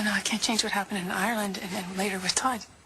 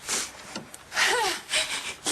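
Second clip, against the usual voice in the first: crying gasp; 9 semitones higher than usual. Acted. Crying between apologies to best friend.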